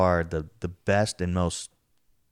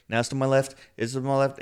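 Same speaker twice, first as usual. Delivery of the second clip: rising scared voice; 6 semitones higher than usual. Retold or imitated. Imitating his buddy's voice rising higher in the pitch-black room, scared. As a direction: voice climbing higher with each line, imitating a spooked friend. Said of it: "his voice is starting to increase".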